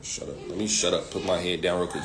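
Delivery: whispered, cowed mumble backing down; cowed man. Retold or imitated. Man yelled at by a woman whispers, backing down. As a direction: shrink and mutter like a scolded man. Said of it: "he was just like".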